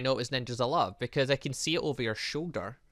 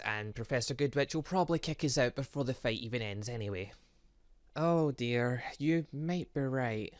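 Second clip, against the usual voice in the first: ordinary delivery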